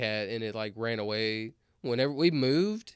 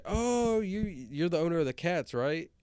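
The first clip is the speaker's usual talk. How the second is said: lady's voice; 5 semitones higher, slower than usual. Retold or imitated. Voicing the lady, surprised.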